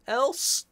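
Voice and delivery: Else sung out high and loud, rising; stress on else. Shown as a demonstration. Teacher stressing the keyword for students, emphatic. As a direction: punch the word Else upward. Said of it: "teacher stressing the keyword".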